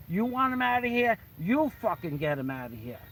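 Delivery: high-pitched retold challenge; defiant challenge. Bouncer challenging his boss to eject the man himself, defiant. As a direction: throw it back at him, pitch jumping up.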